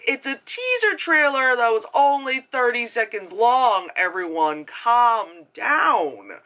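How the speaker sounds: hammed-up exasperation; exasperated retort. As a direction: tell off overreacting fans.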